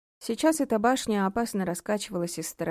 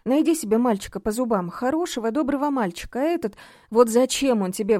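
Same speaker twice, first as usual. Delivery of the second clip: loud, higher, insistent mother; pleading to reason; 5 semitones higher, 7 dB louder than usual. A narrator's reading. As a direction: urge her daughter, exasperated. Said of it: "взывала к разуму дочки Нина Васильевна".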